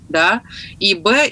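ordinary talk

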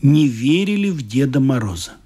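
storyteller voicing each figure; lightly voiced characters in a told story; story narration. A narrator's reading. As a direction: read it like a Christmas tale to adults. Reads a story aloud.

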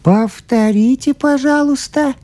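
high, timid little priest voice; embarrassed priest. A narrator's reading. Embarrassed priest asks the scientist, high and timid. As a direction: ask shyly, a bit flustered. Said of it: "смущённо сказал он".

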